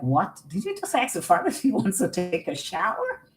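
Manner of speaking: a hint of a shocked inner voice; quick incredulous aside. Her own inner voice questioning her, lightly shocked. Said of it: "It was like".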